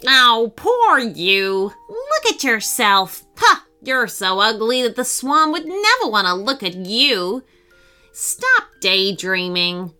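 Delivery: mocking. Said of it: "He kept on ridiculing the hippo".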